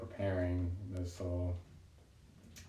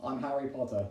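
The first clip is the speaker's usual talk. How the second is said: put-on British accent; 5 semitones higher than usual. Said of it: "if I was British".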